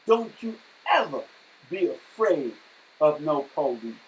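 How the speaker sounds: a mild mock yell of defiance; retold yell. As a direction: shout across the room to your daughter. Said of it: "I yelled out to my daughter".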